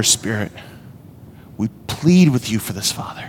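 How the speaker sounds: heartfelt pleading prayer to Father; earnest prayer. Acted. Pastor praying aloud over the congregation, earnest plea.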